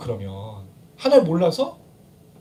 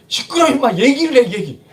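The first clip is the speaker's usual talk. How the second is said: mock exasperated scolding, starting higher and louder; scolding parent; 3 semitones higher, 4 dB louder than usual. Preacher as parent to a bawling child, scolding. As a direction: cut through a child's crying, then ease off. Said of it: "부모들이 자녀들한테 하는 얘기".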